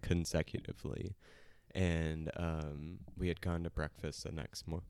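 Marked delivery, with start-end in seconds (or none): 3.2-4.8 choking mid-sentence; words cut off by choking. Real, not acted. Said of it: "just choking a little bit".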